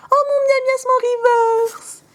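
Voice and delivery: very high, slow, sing-song coo; adoring squeal. Real, not acted. Squealing with adoration over her favourite reverse card.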